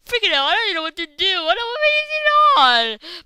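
high, loud, rushed outburst; frantic high yelling; panicked babble. Real, not acted. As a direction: blurt it out in a panic. Panicking, does not know what to do.

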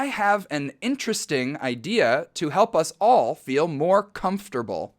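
slow, careful read with interesting and comfortable clipped to three syllables; slow example sentence. Shown as a demonstration. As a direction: read the sample slowly for learners. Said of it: "เช่น". (อ่านประโยคตัวอย่างช้าๆ ชัดๆ)

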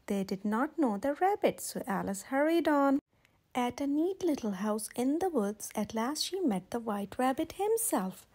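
put-on gentle read-aloud for children; storybook reading. A narrator's reading. Reading a picture book aloud.

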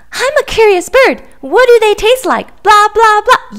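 high, sing-song mocking of the duckling; mocking imitation. Pigeon mimicking the duckling's questions in a high mocking voice. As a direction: parrot the duckling's words to make fun of them.

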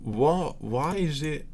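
helpless baffled laughing. Real, not acted. Streamer asking why the mic deepens their voice, helpless laughing. Cracks up at deep playback.

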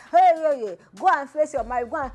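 mock jeering commenter. Imitating commenters jeering at a crying wife. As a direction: jeer at her like the online critics.

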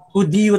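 Hudiyo with a stressed "di"; accent on the I. Shown as a demonstration. Showing how Spanish really says it, Hudiyo stressed on DI. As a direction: say Hudiyo in three syllables, leaning on DI. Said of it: "Ang accent nasa I".

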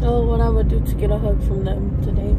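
overwhelmed, apologising through tears; crying while talking. Real, not acted. Missing her family on her birthday, crying. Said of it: "Sorry guys, I'm crying".

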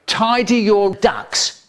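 mock parent repeating an order with rising impatience; sterner order. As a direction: lay down the law, slowly. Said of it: "They say".

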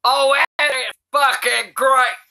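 ordinary talk, nothing marked

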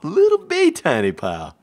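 "Little bitty tiny pile" high and loud; high cutesy. Shown as a demonstration. Correcting the friend, a high cutesy "Little bitty tiny pile". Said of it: "A little bit of tiny pile".

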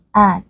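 AND with an open British a, little mouth tension; a relaxed, un-nasal a in AND; giọng Anh Anh. Shown as a demonstration. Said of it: "rất là giống âm a và họ không có độ căng miệng". (AND âm a kiểu Anh Anh, ít căng)

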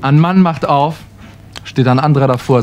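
ordinary delivery

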